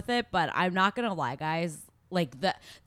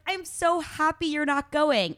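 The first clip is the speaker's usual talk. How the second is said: mock gushing; 7 semitones higher than usual. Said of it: "She's just like".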